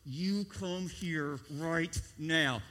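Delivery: slow, low warning through clenched teeth; quiet menace, each word spaced out; mother's slow threat through gritted teeth. Retold or imitated. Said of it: "talking through their teeth".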